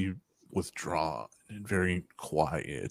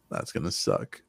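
deep mock doom; 5 dB quieter than usual. Mock grim verdict, repeated.

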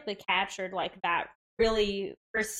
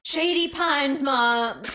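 put-on Golden Girls quote; 5 semitones higher, 6 dB louder, much slower than usual. Quoting Golden Girls line.

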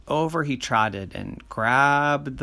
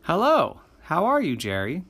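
genie; 5 semitones higher than usual. Acted. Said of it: "And the genie says".

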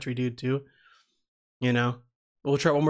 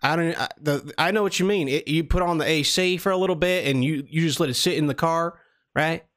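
put-on Southern accent. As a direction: play a friendly Southern country guy. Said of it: "do the same Southern accent".

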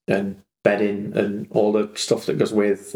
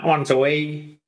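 higher-pitched voiced dog with an accent; dog's voice in accent; 4 semitones higher than usual. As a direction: lightly imitate a dog asking for the toilet. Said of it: "Did he say it in that accent".

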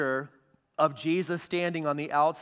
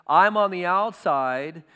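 louder, urgent call from outside the door; Jesus calling from outside; 4 dB louder than usual. Acted. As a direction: call out like knocking to be let in. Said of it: "in an illustrative way".

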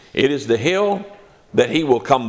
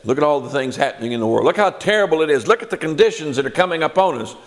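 rushed, acted-out fretting; hurried mock alarm, pitch climbing; mock nervous upset; 4 semitones higher, much faster than usual. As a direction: imitate someone getting worked up, talking fast. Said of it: "we get all upset, you know, you get nervous".

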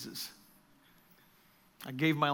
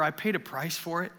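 gentle reminder. Retold or imitated. Jesus gently reminding the church.

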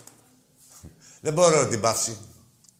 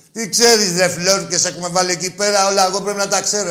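angry rant; 6 semitones higher, 7 dB louder than usual. Real, not acted. Host rants at caller.

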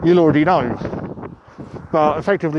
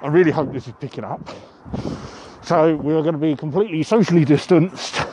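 muffled voice; faster than usual. Real, not acted. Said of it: "If you couldn't tell by my muffled voice".

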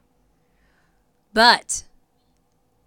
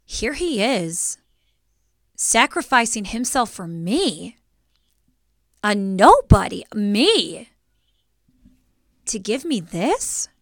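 slow, halting wonder; spaced-out phrases of disbelief; retold awe; slower than usual. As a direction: marvel at an undeserved gift. Retold awe at being saved.

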